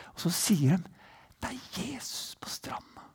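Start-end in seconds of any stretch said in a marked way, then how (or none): 1.4-3.0 soft awed whisper; hushed whisper. Acted. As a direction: share it like a secret. Disciples whisper recognition. (disiplene hvisker i båten, hvisking)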